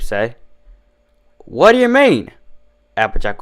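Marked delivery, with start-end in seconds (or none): 1.4-2.3 much higher baffled question; surprised. A narrator's reading. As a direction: caught off guard by the guest. Barmaid surprised by complaint.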